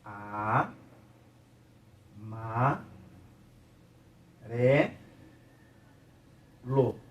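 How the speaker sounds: "A, ma, re, lo" in isolated syllables, long silence between each; teacher sounding out "A, ma, re, lo" piece by piece. Shown as a demonstration. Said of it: "como um som dentro dessa palavra". ("A, ma, re, lo" bem separado, sílaba por sílaba)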